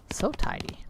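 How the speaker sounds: high breathless whisper; hushed awe at the neatness. Pretend. Marvelling at the brother's tidy charts in a whisper.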